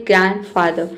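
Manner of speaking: ग्रैंडफादर with no D, "gran-father"; silent D. Shown as a demonstration. Teacher models the rule for students, ग्रैंडफादर with silent D. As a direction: drop the D in ग्रैंडफादर. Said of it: "डी को हम नहीं पढ़ते हैं".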